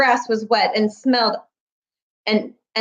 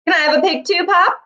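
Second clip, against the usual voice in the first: put-on eager boy; 8 semitones higher than usual. A narrator's reading. Avery asking father.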